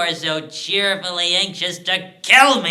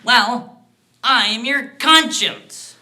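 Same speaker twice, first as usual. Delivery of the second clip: high, loud, crowing announcement; triumphant reveal; 11 semitones higher, 11 dB louder than usual. Acted. Dwarf reveals he is the man's conscience, triumphantly. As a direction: declare it loudly, relishing the reveal.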